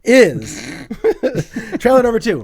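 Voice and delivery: emphatic host transition. Real, not acted. Host moving the show along.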